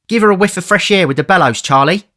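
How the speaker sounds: put-on high, loud boy's voice; Artful Dodger. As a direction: call out as the boy. Dodger orders Charlie.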